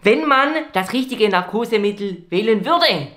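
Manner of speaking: speaking through a mask; muffled doctor voice under mask; muffled behind mask. Acted. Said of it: "bitte einmal ohne Maske".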